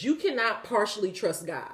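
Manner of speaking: ordinary talk, nothing marked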